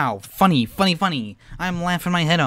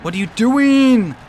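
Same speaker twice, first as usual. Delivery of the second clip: exasperated yell; 7 semitones higher, 7 dB louder than usual. Real, not acted. Yelling at opponent driver.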